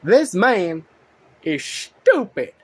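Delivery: a fed-up scolding; annoyed rant. Real, not acted. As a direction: call him out, dragging each word. Ranting at a video commenter.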